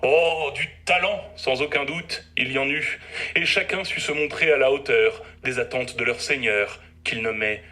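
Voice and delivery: measured, theatrical verse declamation; poem recital. Acted. Doctor reciting his rhymed tale of an evening to his patients, declaimed poem. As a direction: declaim each line, pausing between phrases.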